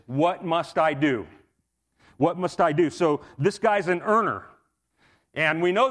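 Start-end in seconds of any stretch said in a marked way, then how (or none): 0.1-2.9 "What must I do" with "I" punched; emphasis on I. Shown as a demonstration. Preacher stresses the earner's question to the congregation, emphatic "I". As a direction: lean hard on "I" in "must I do".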